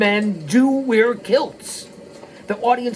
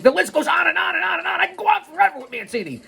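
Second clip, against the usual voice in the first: high, rapid mock-exasperated run; running on and on; 11 semitones higher, faster than usual. Rattling off Mancini's long list, running on and on. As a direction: race through it well above your usual pitch. Comic exaggeration of an endless list.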